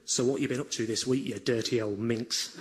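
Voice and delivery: mock flirty. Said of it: "Be flirty".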